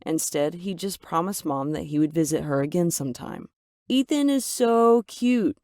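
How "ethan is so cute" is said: higher, slow gushing voice of the mother; gushing mom. Acted. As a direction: coo it like a smitten mom. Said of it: "Mom said after he left".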